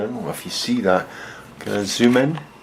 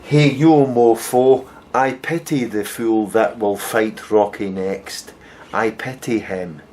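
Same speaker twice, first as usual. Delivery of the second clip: mock tough guy; slower than usual. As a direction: open with a raised challenge, then settle into the catchphrase. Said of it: "Doesn't sound so tough".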